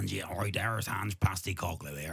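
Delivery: slightly gruff Ange, West Country mixed with Australian. Acted. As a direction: try a rough West Country-Australian character voice. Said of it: "Slightly gruff".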